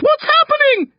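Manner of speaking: very high, loud panicked question; alarmed shout. A narrator's reading. Mum demanding news from upstairs, alarmed shout. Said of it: "Mum shouts".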